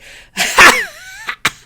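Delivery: high-pitched squeaky wheeze; squeaky high laugh. Retold or imitated. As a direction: squeal it out like a toy. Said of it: "And I'm just like".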